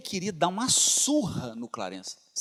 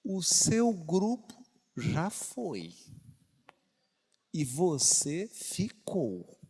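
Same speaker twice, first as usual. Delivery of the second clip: slow, pointed; much slower than usual. Real, not acted. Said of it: "slowed-down pointed remark".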